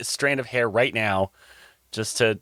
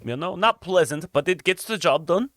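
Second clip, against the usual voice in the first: Jacques; 5 semitones higher than usual. Acted.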